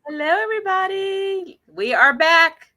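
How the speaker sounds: ordinary talk, nothing marked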